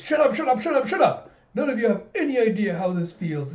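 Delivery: high, loud mock tantrum; rapid-fire cries, then an aggrieved high protest; hysterical outburst. George lashes out at the flunkies, hysterical. Retold boy snaps at flunkies.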